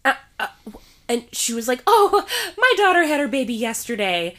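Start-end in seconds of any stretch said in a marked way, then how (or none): 1.9-4.3 lightly mimicked laughing stranger; a nervous laugh through the excuse, voice raised. Stranger laughing off her rude joke, half-laughing.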